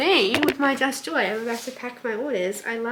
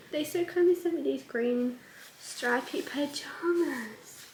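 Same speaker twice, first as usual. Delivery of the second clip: slow, hushed whisper; 3 semitones higher, 5 dB quieter, slower than usual. Real, not acted. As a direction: whisper it as if it were a secret treasure. Describing the gift.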